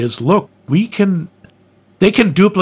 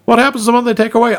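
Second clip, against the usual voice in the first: quick eager question; 6 semitones higher, much faster than usual. Retold or imitated. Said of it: "running gag".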